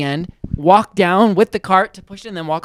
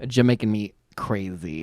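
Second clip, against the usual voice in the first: mock Jamaican accent; 9 semitones lower, 9 dB quieter than usual. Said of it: "like, Jamaican".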